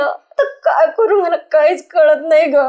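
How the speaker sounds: tearful, words catching on a sob; crying. Acted. Wife to her friend after miscarriage, crying. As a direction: plead through tears, lost and scared. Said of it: "रडू नको, शांत हो आता".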